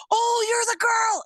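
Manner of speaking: high, drawn-out excited cry; acted-out slow, high shout of recognition. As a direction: exclaim it like a kid who just recognized someone. Kid recognizes her, acted out.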